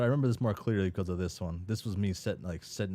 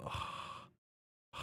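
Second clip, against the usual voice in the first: exasperated groan; 10 dB quieter than usual. Acted. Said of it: "and you go".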